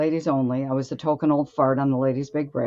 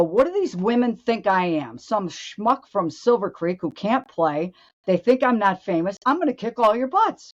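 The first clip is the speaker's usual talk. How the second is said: higher, rising indignant rant; fired-up defiance; 5 semitones higher than usual. Retold or imitated. Golfer psyching herself up before the last round, fired up and higher. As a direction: work yourself up, defiant and cocky. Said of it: "And I go".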